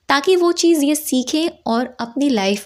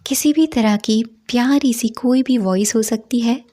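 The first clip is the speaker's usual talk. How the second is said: measured meditation guidance with long pauses; guided meditation. Acted. Teacher guiding listeners into a five senses meditation, measured guided-meditation delivery. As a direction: lead listeners through it unhurriedly, phrase by phrase.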